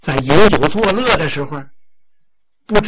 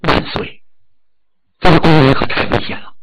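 breathy hushed start, then urgent warning; scheming consort. Acted. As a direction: whisper the alarm into the king's ear. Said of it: "告诉纣王".

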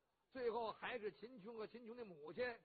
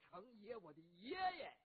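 exasperated inner grumble; 3 semitones higher than usual. Acted. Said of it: "心想".

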